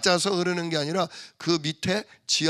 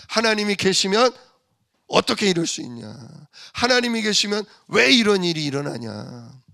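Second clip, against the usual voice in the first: mocking challenge; 3 semitones higher, 3 dB louder than usual. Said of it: "이방인들은 그렇게 조롱해요".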